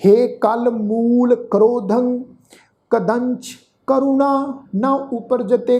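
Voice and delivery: slow, drawn-out chant of the verse; scripture recitation. Shown as a demonstration. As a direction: intone each word slowly and devoutly. (ਹੌਲੀ ਹੌਲੀ ਪਾਠ ਉਚਾਰਨ)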